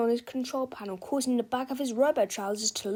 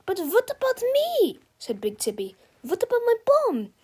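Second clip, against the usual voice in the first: panicked whine; 11 semitones higher, 6 dB louder than usual. Acted. Villain pleading in panic.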